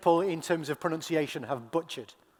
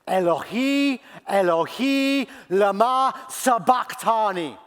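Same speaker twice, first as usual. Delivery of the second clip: higher, louder cry to God; 3 semitones higher, 5 dB louder than usual. Acted. Jesus crying to God in the dark, crying out. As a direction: call out the Aramaic from the cross. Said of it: "And Jesus cries out".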